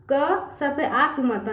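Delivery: क स sounded out slowly, one letter at a time; teacher spelling out क स slowly for children, letter by letter; syllable by syllable. Shown as a demonstration. Slowly sounding out letters. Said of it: "जैसे कि देखिए यहाँ पे न".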